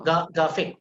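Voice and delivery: graphic started as "Ga-", R omitted. Shown as a demonstration. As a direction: break off on "Ga", then say graphic as "gafic". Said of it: "Imagine there is no R".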